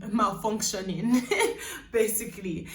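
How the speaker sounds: laughing through the word malfunctioning; a real laugh on the word. Real, not acted. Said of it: "Let's call it".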